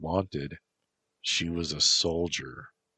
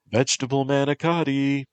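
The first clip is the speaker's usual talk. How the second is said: high, loud, fast call across the room; 9 semitones higher, 6 dB louder, faster than usual. A narrator's reading. Stephen calling the meal name to Amethyst, loud and high. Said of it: "he called out".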